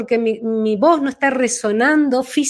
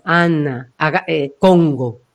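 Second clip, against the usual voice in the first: low, back-placed voice; low demonstration of a rear-placed voice; 5 semitones lower, slower than usual. Shown as a demonstration. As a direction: drop the sound to the back. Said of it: "uno puede sentir que está detrás".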